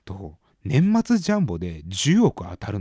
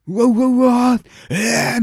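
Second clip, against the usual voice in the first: loud high flustered babble ending in a shocked ee; loud high mock-panicked uwa uwa then shocked ee; 11 semitones higher, 8 dB louder than usual. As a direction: act out being thrown into a panic. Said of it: "みたいな".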